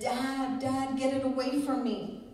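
put-on mildly alarmed little boy calling Dad; mock child's scream. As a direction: imitate a scared child without really yelling. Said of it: "the little boy starts screaming".

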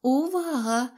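high, drawn-out call for attention. A narrator's reading. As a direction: cry out to the audience. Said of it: "кричала далі Квітонька".

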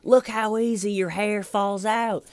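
high, loud, slow at the end; hammering interrogator. Retold or imitated. Red Shirt scratching his own hair at the suspect, loud and high. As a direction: drag out each Look, Steven to rattle him. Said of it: "hair and going".

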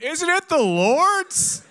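very high, drawn-out mock yell; heckling yell. Friend in the back taunting the pastor, high heckling yell. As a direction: call it out loudly from the back. Kid heckles, repeating the old line.

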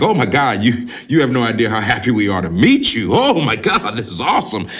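imitating overjoyed parents; mock delighted welcome; happy gushing. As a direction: gush as if thrilled to meet them. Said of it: "they're happy as fuck".

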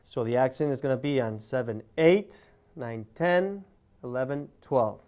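showing the accent on the second beat; accent on even beats. Shown as a demonstration. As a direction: hit "eight", "ten" and "twelve" in the count. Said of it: "put the accent on the second beat".

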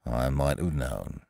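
low, soft, slow resignation; gloomy. Acted. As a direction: sigh it out gloomily. Eeyore gloomy.

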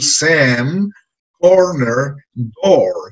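each stressed word stretched out long; lengthened stressed words. Shown as a demonstration. Teacher to class, stretching Sam, corner, door long. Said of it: "a extender su longitud".

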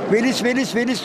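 lilting, repeated two-syllable chirp; bird phrase demo. Shown as a demonstration. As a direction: chant velis like a songbird. (kuş ötüşü taklidi)

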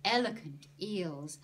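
loud, high, rhythmic fish chant; punchy run of alliterative cries; energetic fish patter. Acted. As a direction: belt out the list with a bouncing beat.

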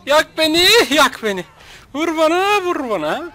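high-pitched imitated catchphrases; mock the catchphrases, pitching up each first half; Kerimcan Durmaz. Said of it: "Kerimcan Durmaz". (tiz sesle taklit edilen sloganlar)

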